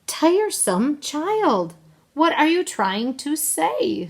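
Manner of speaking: loud, high scolding with drawn-out words; impatient mother, heavily stressed; exasperated mother. A narrator's reading. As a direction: scold a tiresome child. Mother scolds her child.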